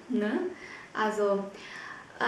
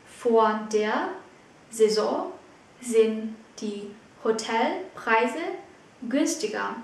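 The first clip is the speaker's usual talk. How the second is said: slow; slower than usual. Shown as a demonstration. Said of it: "teacher repeats sentence slowly".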